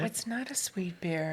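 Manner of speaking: hushed whispered agreement; whispering. Real, not acted. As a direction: say it under your breath. Whispered echo of the tasting note.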